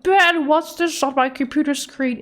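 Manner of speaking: mock a mother calling out a question; retold mom's puzzled demand; imitating mom. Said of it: "My mom called me. She's like".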